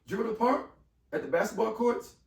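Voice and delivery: high, disbelieving question about the park; the principal can't believe he's at the courts; incredulous echo. Retold or imitated. Principal echoing his location in high disbelief. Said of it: "She goes".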